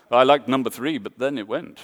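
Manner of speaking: badly faked German accent on an audience quote. Designer mimicking an audience critic in a bad German accent. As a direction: lightly put on a crap German accent. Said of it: "that was a really crap German accent".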